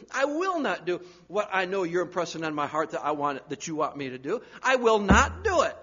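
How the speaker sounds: stubborn, rising defiance to a loud finish; defiant refusal. Retold or imitated. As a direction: dig in your heels against God. Stubborn believer refusing God.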